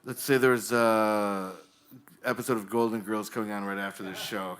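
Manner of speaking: ordinary talk, nothing marked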